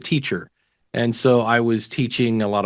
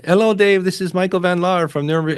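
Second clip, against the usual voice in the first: Michael's voicemail greeting; 7 semitones higher than usual. Retold or imitated. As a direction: play the faraway fan leaving a friendly voice message. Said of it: "and I hear him".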